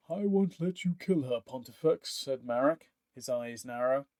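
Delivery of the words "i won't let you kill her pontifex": firm defiance. Acted. Marek blocking Pontifex with his halberd, resolute. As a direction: stand your ground.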